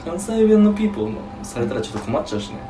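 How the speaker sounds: imitation Tokyo accent; put-on standard Japanese. Shown as a demonstration. Friend riffing on Kansai sirens, mock standard Japanese. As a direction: joke along in fake standard Japanese. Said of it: "標準語喋ろうと思うと".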